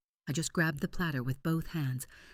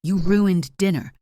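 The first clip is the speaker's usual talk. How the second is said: high, loud accusing shriek; outraged mother shrieking; 6 semitones higher, 12 dB louder than usual. A narrator's reading. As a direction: shriek it at the culprit. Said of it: "My mother shrieked".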